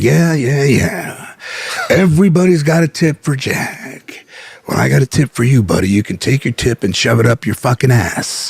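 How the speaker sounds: lightly voiced sarcastic Nicholson; mock Nicholson telling the pro off; imitating Jack Nicholson. Jack Nicholson voiced in retold fight.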